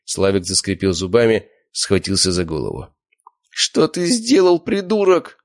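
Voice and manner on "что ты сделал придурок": high despairing cry. A narrator's reading. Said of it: "пробормотал он".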